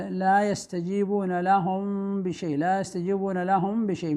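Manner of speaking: لهم بشيء with a lengthened nasal hum on the meem, lips lightly closed; ikhfa shafawi with ghunnah. Shown as a demonstration. Teacher showing pupils the recitation rule, humming out the meem of لهم before بشيء. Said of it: "مع غنة ظاهرة بمقدار حركتين".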